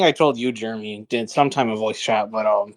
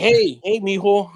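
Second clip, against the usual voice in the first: lightly voiced creepy priest, pitched up; creepy old priest; 6 semitones higher, slower than usual. Old priest calling to a stranger at the gym, lightly imitated creepy greeting. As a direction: call out higher, a hint of creepy friendliness. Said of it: "but he said it like".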